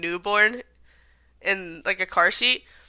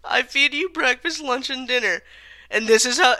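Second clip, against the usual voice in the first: imitating owner's rant; 4 semitones higher than usual. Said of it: "he was just yelling at his dog".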